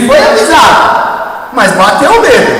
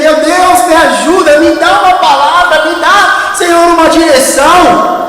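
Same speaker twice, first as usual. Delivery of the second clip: desperate plea; 5 semitones higher than usual. Acted. Panicking climber begs God for help.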